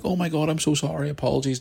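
high, flustered apology; a stranger suddenly embarrassed; apologetic stranger. Retold or imitated. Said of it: "He was like".

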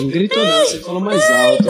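whiny mock falsetto. Joins the mock whine.

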